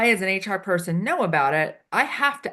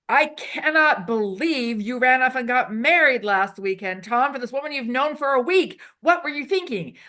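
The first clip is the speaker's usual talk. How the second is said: hammed-up disbelief, a little louder and higher; over-exaggerated emotion; 4 semitones higher, 3 dB louder than usual. Shown as a demonstration. Improv teacher showing the host a big, hammed-up outburst. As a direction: play the scene partner big and shocked. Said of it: "We use over-exaggerated, um, emotions".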